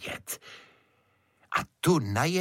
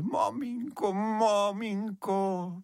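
higher, slow tearful begging; tearful pleading; 8 semitones higher, slower than usual. A narrator's reading. Crying beetle begs mother not to tell, tearful plea. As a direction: beg through tears. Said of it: "a už zas plakal a pořád prosil".

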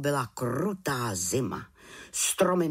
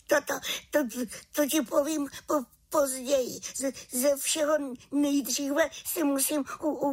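high, stammering from the cold; teeth chattering; 13 semitones higher than usual. Acted. Frozen witch stammers to raven, teeth chattering. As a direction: stutter through chattering teeth. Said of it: "jen drkotala zuby".

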